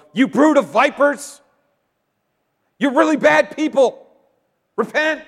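loud high shouted denunciation; fiery rebuke. Retold or imitated. John rebuking priests and Levites, loud high shouted denunciation. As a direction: blast them like a prophet. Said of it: "look at these priests and Levites and go".

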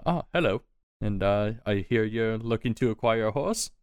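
a hint of a small, polite horse owner; little man. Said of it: "you see this little man".

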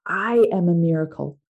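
gently spoken affirmation; soft and gentle. Shown as a demonstration. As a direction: say it gently, as a tender reassurance. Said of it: "we can sound soft and gentle".

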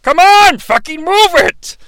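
high, strained mock yell; driving the caribou. Lebowski drives his caribou on, high urgent yell. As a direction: urge the animals on, hammed-up. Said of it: "really working it on Donner and Blitzen".

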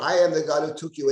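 "I am" punched at the start; firm stress on "I am"; emphatic I. Shown as a demonstration. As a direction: give "I" emphatic weight. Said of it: "uh, emphatic".

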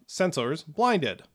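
slow, robotic machine voice, rising at the end; metallic voice. Acted. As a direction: announce it like a cold robot. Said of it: "metallic voice you hear right in front of you".

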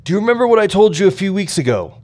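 put-on high, quick Russian-accented question; eager question in a Russian accent; thick Russian accent. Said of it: "in his thick Russian accent".

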